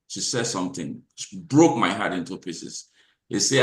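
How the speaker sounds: ordinary talk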